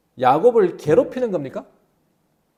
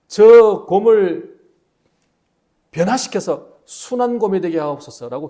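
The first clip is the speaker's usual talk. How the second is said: desperate prayer; 4 dB louder than usual. Acted. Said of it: "막 간절히 기도했습니다".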